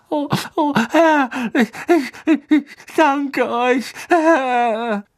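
high, trembling servant thanks; groveling whimper. A narrator's reading. Servant thanks master, cowering.

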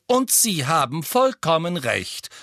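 high, stern mother; stern interruption. A narrator's reading. Mother backing the ban on questions, stern. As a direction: cut in firmly.

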